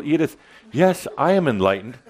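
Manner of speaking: proudly telling Edith on the street; eager announcement. Shown as a demonstration. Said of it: "But you say it in that kind of voice".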